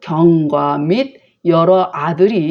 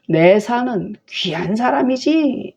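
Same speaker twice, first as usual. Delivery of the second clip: slow, higher, mock-admiring; sarcastic; 5 semitones higher, slower than usual. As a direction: praise him so that it stings. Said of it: "뭐 이렇게 하는 거예요".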